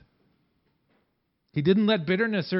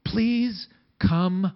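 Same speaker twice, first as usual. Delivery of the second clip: gentle plea; 3 semitones higher, much slower than usual. Acted. Joseph gently calls brothers near.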